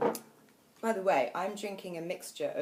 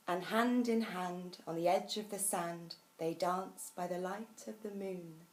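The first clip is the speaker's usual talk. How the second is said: lively poem reading; 3 semitones higher than usual. A narrator's reading. Host ending a children's poem for guests, expressive recital easing down. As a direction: read expressively, settling toward a gentle close.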